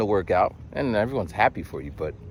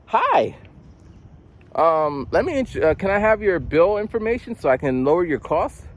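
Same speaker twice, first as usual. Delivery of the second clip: automated gas caller; 5 semitones higher than usual. Retold or imitated. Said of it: "the gas one".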